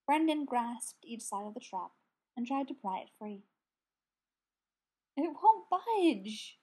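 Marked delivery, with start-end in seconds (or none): 5.2-6.6 slow, sad and higher. A narrator's reading. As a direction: let it drag out, defeated. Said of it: "he said sadly".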